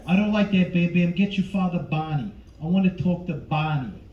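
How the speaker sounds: lightly voiced menacing father; a hint of a tough-guy interrogator, with pauses; Robert De Niro. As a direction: question him like a suspect, lightly in character. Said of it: "De Niro as Fred".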